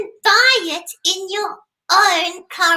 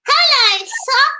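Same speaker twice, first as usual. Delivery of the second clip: puppet voice; 8 semitones higher, 7 dB louder, slower than usual. Pretend. Greeting the sock puppet.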